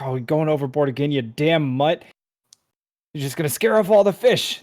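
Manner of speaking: a grumbling dwarf swearing at his dog, rising at the end; dwarven cursing. Acted. Fisherman dwarf scolding his dog for scaring fish, annoyed curses. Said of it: "some dwarven curses".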